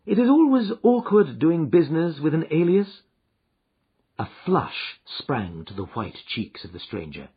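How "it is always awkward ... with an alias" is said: Holmes, calm and assured. Acted.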